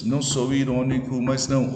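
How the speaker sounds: "Não sou irônico, mas não" in measured syllables; syllable counting. Shown as a demonstration. Teacher showing an eight-syllable verse, metrical reading of "Não sou irônico, mas não". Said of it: "oito sílabas".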